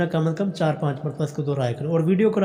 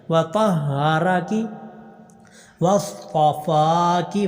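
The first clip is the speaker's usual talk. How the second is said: slow drawn-out tajweed chant; slow tarteel recitation; Quran recitation; much slower than usual. Shown as a demonstration. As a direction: recite each vowel long and measured. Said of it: "فا کو لمبا کرنا".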